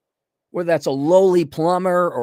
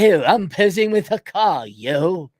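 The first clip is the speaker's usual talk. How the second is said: mock British accent; slower than usual. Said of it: "Or I guess in Britain".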